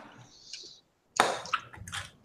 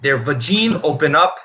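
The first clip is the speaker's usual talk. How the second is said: mock Russian accent. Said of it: "Now you're turning into Borat".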